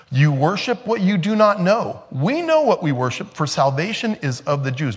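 a hint of a firm rabbi setting her straight; firm teacher. Jesus correcting the Samaritan woman, lightly voiced.

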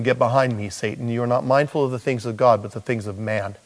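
quiet, low rebuke; stern Jesus. Retold or imitated. Preacher voicing Jesus rebuking Peter, quiet and low. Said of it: "Jesus says to him".

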